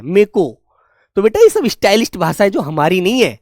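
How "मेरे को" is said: "मे को" said clipped, मेरे shrunk to मे; me ko shortened. Shown as a demonstration. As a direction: squeeze मेरे को down to "मे को". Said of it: "बोलते हैं". ("मे को" बोलो, मेरे नहीं)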